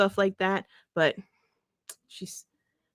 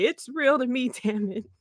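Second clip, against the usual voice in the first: lightly voiced mock-tearful fan, breaking into laughs; mock whiny insistence with laughter; crying fan meme; 3 semitones higher than usual. A hint of a crying fan's voice for Buddy, laughing. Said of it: "put Buddy Matthews' face on that kid".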